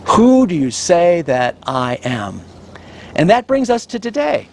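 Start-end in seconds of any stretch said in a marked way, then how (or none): 0.0-2.4 slow, grave delivery of the question; solemn question. Acted. Preacher putting Jesus' question to the congregation, slow and solemn. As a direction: ask it slowly, letting it land. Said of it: "you need to get this question right".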